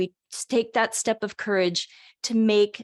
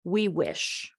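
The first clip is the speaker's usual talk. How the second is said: slow, deliberately separated words; slowly and clearly, with spaces between words; slow, clear articulation; much slower than usual. Shown as a demonstration. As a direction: demonstrate careful articulation, drawing each word out. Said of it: "articulating them slowly and clearly".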